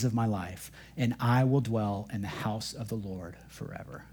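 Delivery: scripture reading. Acted. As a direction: let the verses settle, calm and hushed. Continues reading Psalm 23.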